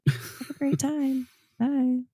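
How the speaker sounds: curt fake-sweet service voice; bitchy customer service lady. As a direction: brush them off sweetly. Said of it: "I just do the bitchy, like, customer service lady".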